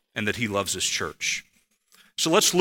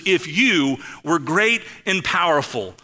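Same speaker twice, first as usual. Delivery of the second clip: indignant Dorothy; 3 semitones higher than usual. Retold or imitated. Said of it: "And she says this line".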